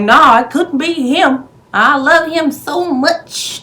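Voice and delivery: high, swooning mock girlfriend, drawn out slow; mocking lovestruck Dorothy. Mocking Dorothy defending her new man, high and swooning. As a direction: gush over the man like a smitten fool.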